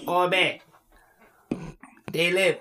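put-on caricatured elderly Asian accent; short phrases imitating an old Asian speaker; old Asian person accent. Shown as a demonstration. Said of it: "like an old Asian person".

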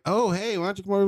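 high, bright invitation; friendly stranger. Retold or imitated. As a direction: call him over cheerfully.

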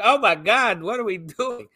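high, loud mock exclamation; retold alarm. Onlooker to police over a drawn gun, retold alarm. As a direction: act out exasperated disbelief, easing in volume.

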